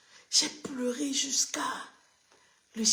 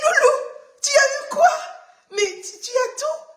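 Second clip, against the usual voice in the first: very high, loud, laughing pet talk; high amused baby talk to a pet; laughing at the dog; 11 dB louder than usual. Retold or imitated. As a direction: squeal it through laughter at the dog.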